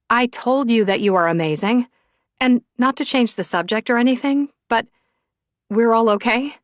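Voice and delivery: praise, then check in with a lifted voice; lightly voiced eager Luna. Luna asks friends if all is okay, mildly eager.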